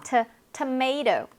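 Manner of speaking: "tomato" as tuh-MAY-to, very slow; slow English tomato. Shown as a demonstration. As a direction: split "to-" then say "tomato". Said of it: "영단어로는 어떠냐면".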